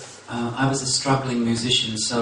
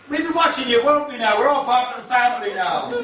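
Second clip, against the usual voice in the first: high, menacing-jolly Irish uncle; Irish accent; 11 semitones higher, 4 dB louder than usual. Retold or imitated. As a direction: pitch it way up in an Irish lilt. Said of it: "And the other one said".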